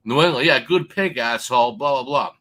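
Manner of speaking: a loud mock jeer from the hecklers; heckling crowd. Quoting hecklers mocking his pick, a mild mock jeer. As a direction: taunt him like a sore bettor. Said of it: "You're already getting fucking heckled".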